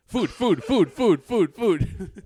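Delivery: excited high yappy dog voice; yappy panting puppy. Pretend. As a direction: yap it out like an eager puppy. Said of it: "he'd be like".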